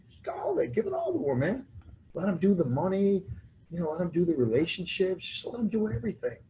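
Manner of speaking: high-pitched, mock-persuasive run; acted eager urging. Retelling advice to hand over money and relationships, eagerly urging. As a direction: urge it on, pitch climbing.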